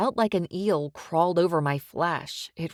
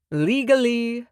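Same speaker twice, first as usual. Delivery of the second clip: light sing-song lilt, higher; 5 semitones higher, 4 dB louder than usual. A narrator's reading. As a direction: tease the word out melodically. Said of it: "Sykes reminded me in a sing-song voice".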